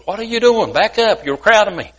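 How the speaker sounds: mock sheep grumble; translated sheep talk. Sheep telling the crowding flock to back up, mildly grumbling. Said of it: "That's sheep for".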